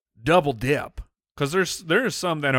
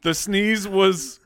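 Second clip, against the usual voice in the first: laughing shout; 5 semitones higher, much slower than usual. Real, not acted.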